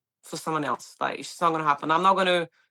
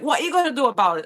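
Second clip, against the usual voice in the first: higher, fast taunting challenge; aggressive taunt; 6 semitones higher, 4 dB louder, much faster than usual. Retold or imitated. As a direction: fire it back quickly at her. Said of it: "he was like".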